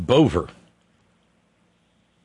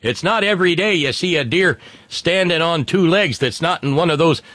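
Attorney General; 5 semitones higher than usual. Acted. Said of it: "said the Attorney General".

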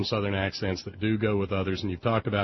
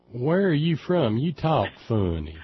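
Alabama locals; 4 semitones higher than usual. Retold or imitated. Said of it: "everybody'd say".

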